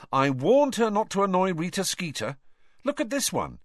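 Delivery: a hint of smug teen boy. A narrator's reading. Ron's quote.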